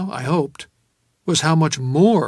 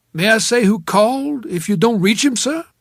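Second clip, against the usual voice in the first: high, louder maid's query; 8 semitones higher, 8 dB louder than usual. A narrator's reading. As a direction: ask politely in a lifted maid's voice. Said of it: "a maid, probably".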